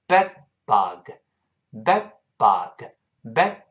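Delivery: BED BUG with the d held unreleased, slow; 失去爆破. Shown as a demonstration. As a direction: stop the tongue on the d in BED, pause, then BUG. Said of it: "舌尖顶住上牙膛". (慢速示范 bed bug，d 只顶住不爆破)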